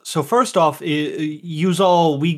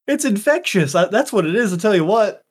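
higher-pitched country twang; country accent; 5 semitones higher than usual. Real, not acted. Player blames infection for his speech, country accent. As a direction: let the country accent take over. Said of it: "I just suddenly had a country accent".

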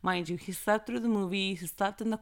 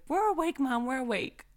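put-on high, eager kid voices insisting; 5 semitones higher than usual. Kids assuring mom they're awake, eager and high. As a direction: pipe up like wide-awake kids.

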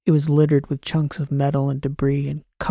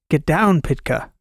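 shouted warning; 4 dB louder than usual. Acted. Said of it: "Mycon shouted at me again".

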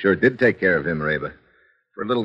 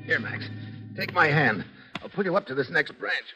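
quiet, higher voice; hushed; 8 semitones higher, 6 dB quieter than usual. Acted. Sneaking up a tree at night.

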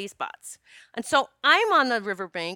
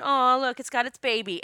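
put-on naive childlike delight; 3 semitones higher, 4 dB louder than usual. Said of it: "little naive, childlike thinking".

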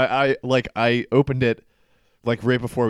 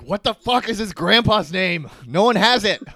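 exasperated; 8 semitones higher than usual. Retold or imitated. Co-host retelling the research on grandpa, hammed-up exasperation. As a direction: act out a frustrated, fruitless search. Retelling own frustrated search.

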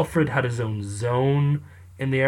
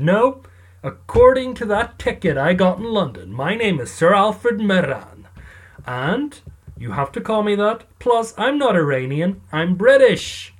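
higher and louder, a hammed-up indignant protest; mock indignant insistence; 5 semitones higher, 4 dB louder than usual. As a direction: insist on it like an offended aristocrat, loud and high. Alfred insisting on his title.

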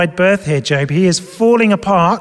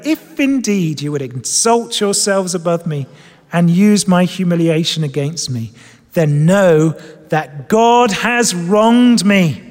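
slow scripture reading. Shown as a demonstration. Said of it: "I'm actually gonna read it slowly".

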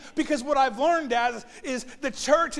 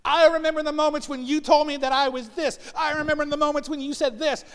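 higher-pitched mock recollection; wife's reproach; 5 semitones higher, 4 dB louder than usual. Wife reminding husband of past words, mildly accusing. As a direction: replay her grievance in a lightly raised voice. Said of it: "And I'm like".

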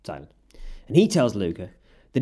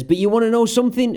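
quoting Hawk; 9 semitones higher, 4 dB louder, faster than usual. Retold or imitated. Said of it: "he gives up and says".

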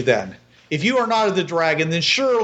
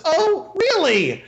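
mocking peasant woman; 2 semitones higher than usual. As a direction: tease him, drawing out "A man's god". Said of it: "you hear this female voice says".

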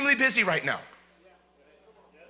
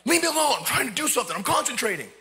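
irritated parent; 3 semitones higher, faster than usual. Retold or imitated. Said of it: "and we get".

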